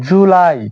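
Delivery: জুলাই with the last vowel drawn out; long sound. Shown as a demonstration. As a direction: stretch the end of জুলাই. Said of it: "একটু লম্বা sound হবে". (একটু লম্বা সুরে জুলাই)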